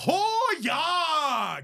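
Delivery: high, loud, drawn-out Canadian holler; mock Canadian accent. Mimicking friends who mock the accent, hammed-up Canadian yell. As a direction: caricature a Canadian with a long sliding whoop. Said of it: "I'm gonna do that in the rest".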